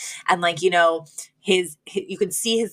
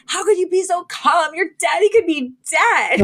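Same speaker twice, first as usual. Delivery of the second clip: high, shrill-pitched mock mother scolding her daughters; mother snapping at the girls, imitated high and cruel; 10 semitones higher than usual. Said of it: "Which I thought was so cruel and funny".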